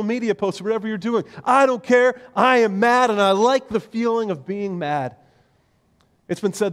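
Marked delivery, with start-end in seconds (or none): 1.4-5.2 louder and higher, defiant mad voice; mock angry rant. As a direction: revel in being mad. Angry adult refusing to calm.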